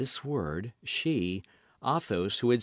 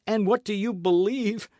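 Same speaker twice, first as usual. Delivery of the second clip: high, louder choked question; stifled by sobs; 10 semitones higher, 5 dB louder than usual. A narrator's reading. D'Artagnan asking Athos, stifled by sobs. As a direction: fight back sobs. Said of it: "His voice was stifled by sobs".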